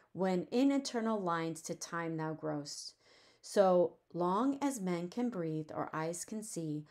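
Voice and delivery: gentle, understated poetry reading; poem reading. Acted. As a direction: read the verse evenly, easing down at the close. Reads the sonnet aloud.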